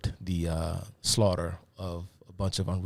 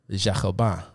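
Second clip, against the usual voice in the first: French pronunciation. Shown as a demonstration. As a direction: try "Jacobins" in French. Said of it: "I tried to say it in French".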